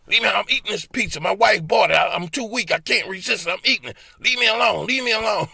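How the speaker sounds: high loud yell to be left alone. Pretend. Yelling at the doctor's voice in his head. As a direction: shout the doctor off.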